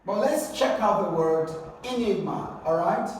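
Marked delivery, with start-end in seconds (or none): 1.8-2.6 second syllable of "enigma" stressed; "enigma" with the weight in the middle. Shown as a demonstration. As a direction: lean on the NIG in "enigma". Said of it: "has a stress on the second syllable".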